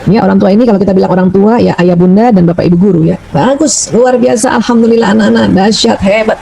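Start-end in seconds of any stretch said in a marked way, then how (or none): 3.3-6.4 put-on glowing praise for the kids; praising children warmly. Shown as a demonstration. Parent praising children, glowing and warm. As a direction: heap on the praise like a proud parent. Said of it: "nah, gitu".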